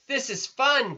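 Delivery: piped. Acted. Pip enjoying the chaos, high piping. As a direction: pipe it up with joy. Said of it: "piped Pip".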